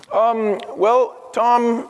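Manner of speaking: lightly voiced worker, hesitant and flat on Tom; a hint of an uneasy worker dodging about the boss; hesitant employee. Employee hesitating over the boss's name, lightly voiced. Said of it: "it would sound like".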